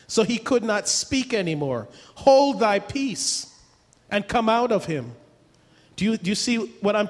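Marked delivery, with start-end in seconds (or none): 2.2-5.1 command. Retold or imitated. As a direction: bark it out slowly. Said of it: "He said".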